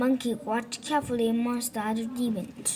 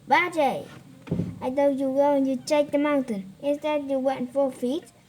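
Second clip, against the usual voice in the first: raised, louder, higher scolding; angry scolding; 3 semitones higher, 4 dB louder than usual. Acted. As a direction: scold him like a disappointed master. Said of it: "The Tang Monk was angry".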